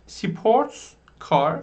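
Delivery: very slow, drawn-out question to the class. Shown as a demonstration. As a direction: stretch out the question for learners. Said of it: "learners asked".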